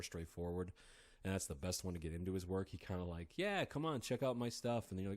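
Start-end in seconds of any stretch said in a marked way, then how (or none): 3.4-4.9 higher, breezy mock invitation; Kenneth Grant, casual invitation. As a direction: playfully voice an author waving readers in. Imagines the author inviting readers in.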